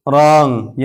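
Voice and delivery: रॉन्ग starting straight on the R; silent W. Shown as a demonstration. Teacher models wrong for learners, रॉन्ग with silent W. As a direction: say रॉन्ग with no W sound. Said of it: "डब्ल्यू silent है".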